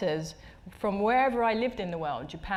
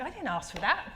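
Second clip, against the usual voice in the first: 1 laughing; 3 semitones higher, 3 dB quieter than usual. Real, not acted. Laughing at gran's unasked message.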